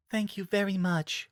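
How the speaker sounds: soft sweet thanks; sweetly. A narrator's reading. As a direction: say it sweetly and gently. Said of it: "Fluttershy said sweetly".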